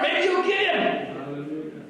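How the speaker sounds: slow, dry taunt after the jeering; mock-helpful, dragged-out needling. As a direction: draw the jibe out slowly. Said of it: "He mocks them".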